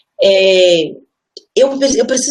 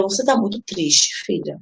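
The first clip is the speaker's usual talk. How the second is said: tender mother; 4 dB quieter, slower than usual. Retold or imitated. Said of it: "Aí eu".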